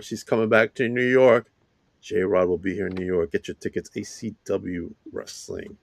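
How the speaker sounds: breathless after rapid plugs; running out of air; out of breath. Real, not acted. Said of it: "I'm out of breath".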